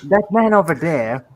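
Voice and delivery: high, quick, insistent report; urgent tattling. Acted. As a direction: press the accusation on the guard. Player pleads urgently with the guard.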